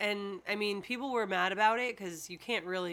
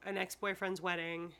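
whispering; 4 semitones lower, 7 dB quieter than usual. Real, not acted. Aside about exes.

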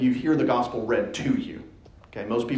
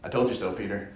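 smug told-you-so; 6 semitones lower, 6 dB quieter than usual. Retold or imitated. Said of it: "Even more".

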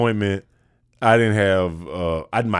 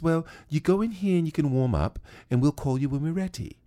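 lightly higher lady voice, softer; a hint of a helpful lady directing him; casting lady; 7 semitones higher, 4 dB quieter than usual. Casting lady sends him to the warm-up room, lightly voiced. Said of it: "And says".

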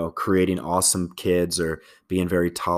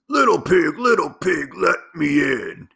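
wolf calling through the door in a high voice; big bad wolf; 8 semitones higher than usual. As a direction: ham up the wolf knocking at the door. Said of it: "if you want the better voices".

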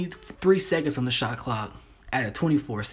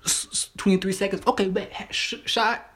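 pushy hype voice; 8 semitones higher than usual. Retold or imitated. Acting a pushy guy.

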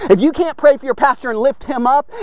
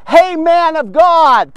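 slow, drawn-out mocking greeting; 3 semitones higher, 4 dB louder, slower than usual. Soldiers mocking Elijah with his title, slow sneer. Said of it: "They're mocking him when they say".

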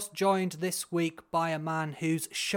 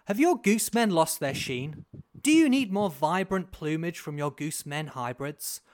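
upbeat ad read; 3 semitones higher than usual. Acted. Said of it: "we have to be very upbeat about this".

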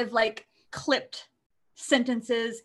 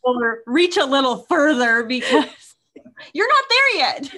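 whispered jab; 3 semitones higher, 8 dB louder than usual. Retold or imitated. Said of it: "he tells me how to do it better".

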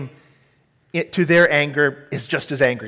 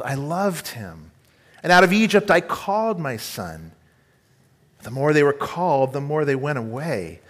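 scripture reading. Acted. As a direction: read the passage as tender as God speaking. Preacher reads Hosea scripture aloud.

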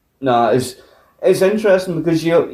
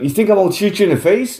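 mock-incredulous question, high and quick; incredulous retort; 7 semitones higher, faster than usual. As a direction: toss back a high, rapid challenge. Robber's incredulous retort, retold.

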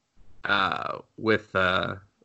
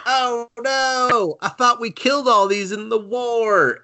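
a higher, lightly voiced Licht in alarm; hint of cartoon panic; mock alarm; 10 semitones higher, slower than usual. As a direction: play the hero caught off guard. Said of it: "Licht is like".

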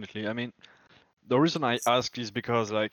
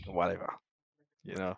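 confiding a secret; 4 semitones lower, 6 dB quieter than usual. Real, not acted. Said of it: "don't tell anyone".

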